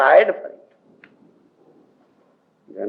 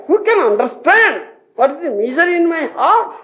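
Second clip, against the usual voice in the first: longing lament; 10 semitones higher, faster than usual. Retold or imitated. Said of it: "He was crying like that".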